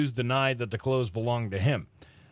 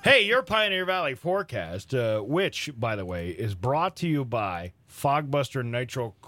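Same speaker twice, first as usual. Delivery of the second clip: bright, upbeat sponsor read; chipper 1950s ad; 2 semitones higher than usual. Acted. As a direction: sell the coffee like an old radio spot. Reads coffee sponsor ad on air.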